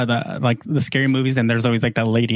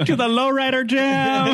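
laughing; 8 semitones higher than usual. Retold or imitated. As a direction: stretch it out while cracking up. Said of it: "She's like".

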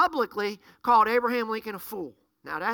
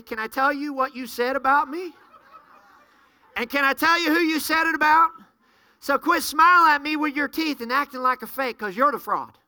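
louder, confronting retort; imagined angry comeback; 4 dB louder than usual. Retold or imitated. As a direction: push back at the two-faced gossips. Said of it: "That's what I wanted to say".

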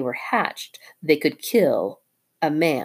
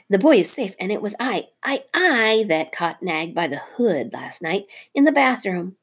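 proud mongoose; 4 semitones higher than usual. Acted. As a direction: proclaim his victory. Rikki boasts again.

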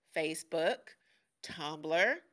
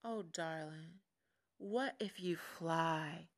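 slow, tender mother bird; unhurried, soothing storybook mother; simple motherly reply; 3 semitones lower, slower than usual. Retold or imitated. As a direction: answer gently and simply, drawing it out. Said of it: "his mother replied simply".

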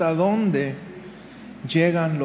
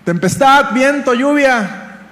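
raised, drawn-out command; commanding the storm; 5 semitones higher, 4 dB louder than usual. Acted. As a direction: call out to wind and rain with authority. (orden enérgica a la tempestad)

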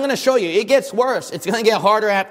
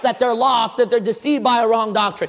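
normal talking voice

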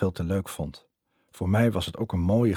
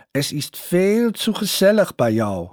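put-on high, slow German-accented Dutch, louder; 10 semitones higher, 6 dB louder than usual. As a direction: play the German boyfriend charming her. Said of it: "zei hij".

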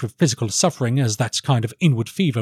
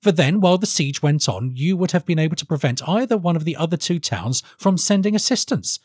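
high-pitched, earnest counsellor to a king; formal, high young strategist's plea; earnest advisor; 5 semitones higher than usual. Acted. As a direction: argue the plan in a higher voice. Voices Felix advising the king.

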